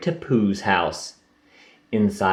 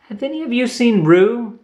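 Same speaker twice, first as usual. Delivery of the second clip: Kanga asking; 13 semitones higher, 3 dB louder than usual. Acted. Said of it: "she asked".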